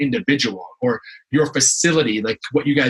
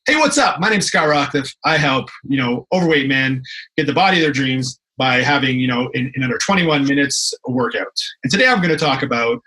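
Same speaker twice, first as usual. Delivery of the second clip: bad video intro. Shown as a demonstration.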